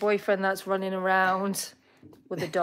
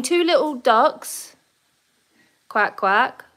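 bingo caller; 4 semitones higher, 4 dB louder, slower than usual. Shown as a demonstration. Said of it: "Number twenty-two".

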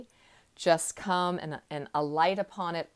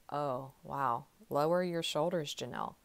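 self-talk, calming; 4 dB quieter than usual. Retold or imitated. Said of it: "I have to consciously go".

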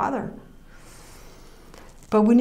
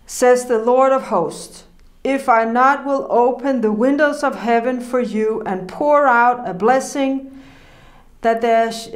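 scripture reading. Acted. Preacher reading Malachi to the congregation, solemnly. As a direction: proclaim the verse with weight.

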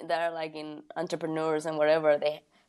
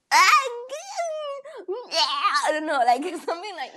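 laughing demo; 12 semitones higher, faster than usual. Shown as a demonstration. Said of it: "not like that. That's not the voice".

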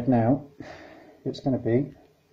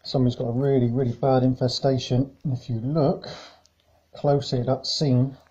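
muffled behind a face mask; talking through a mask. Real, not acted. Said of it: "speaking through a face mask at the moment".

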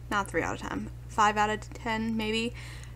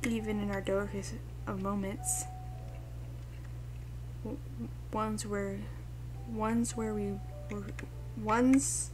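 soft, slightly halting tender read; understated, hushed storybook tenderness; gentle dialogue reading; 8 dB quieter than usual. Acted. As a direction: read words of comfort softly.

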